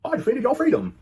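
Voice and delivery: loud, high, slow imitation rant; mock outraged Brit. Retelling an angry man's complaint about a shirt, mock outraged. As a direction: put on an indignant shouted complaint, far above your voice.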